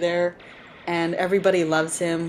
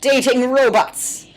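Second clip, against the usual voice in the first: excited; 8 semitones higher, 7 dB louder, slower than usual. Real, not acted. Gleeful outburst at the show.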